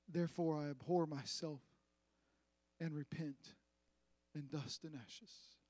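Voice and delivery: humble quiet confession, fading away; soft scripture reading. Acted. Reads Job's repentance softly.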